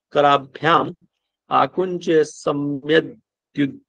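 slow, measured reading of a shloka; Sanskrit verse recitation. Acted. Teacher reading a yoga verse to students, slow measured recitation. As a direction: recite it haltingly, stretching the syllables.

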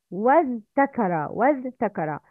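وَازْتَكَرَ with a clear ز and a ت; original form. Shown as a demonstration. Teacher showing the word's original form, ز then ت. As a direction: say وَازْتَكَرَ as "waztakara". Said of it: "is originally".

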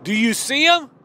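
Martha calling back. Acted. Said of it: "Martha yells back".

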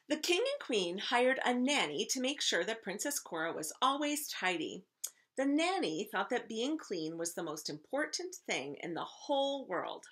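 lively, clearly phrased read-aloud; story narration. A narrator's reading. Teacher reading a picture book to first graders, story narration. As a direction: read a storybook to children with expression.

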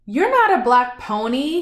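a read-aloud shout, not a real yell; mild mock shout. Man tells the pony he is no pony, mock shout. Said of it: "he shouted".

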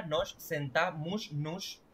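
"sentamos" keeping its final S before "nos", as sentamush-nush; uncut S. Shown as a demonstration. Teacher showing what would result otherwise, "sentamos" with final S kept. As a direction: sound every S in "nos sentamos, nos". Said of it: "obligado tienes que cortar la S".

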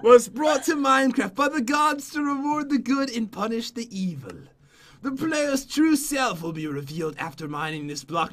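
measured storybook narration; solemn book-reading voice; story reading. Acted. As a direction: read it out like an old legend. Reads the book aloud to friend.

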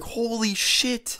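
very high, slow, breathless holy shit; stunned gasp. Retold or imitated. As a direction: gasp out shocked disbelief. Reacting to the slap.

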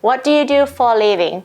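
slow, careful teacher model; drawn-out classroom demo; slow model reading. Shown as a demonstration. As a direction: spell it out slowly for learners. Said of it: "มาจากประโยคเต็มๆว่า".

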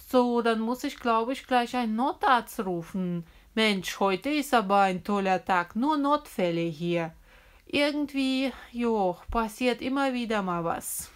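teacher calmly handling another mishap; kindergarten teacher voice. Pretend. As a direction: play the busy kindergarten teacher. Teacher played in pretend game.

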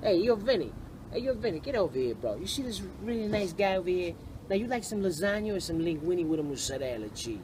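put-on New York wiseguy Brooklyn accent. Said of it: "you wanna hear a Brooklyn accent".

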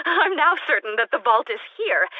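giddy laugh then high, bright certainty; a giddy scientist who knows she's right. Acted. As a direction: laugh with delight over the find. Giddy laugh over vault discovery.

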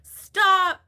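high, sudden shout of protest; loud exclamation. Real, not acted. Bursts out after reading a comment.

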